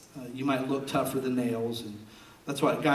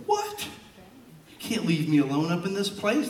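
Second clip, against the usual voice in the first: put-on kid protest; 5 semitones higher than usual. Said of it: "I was like".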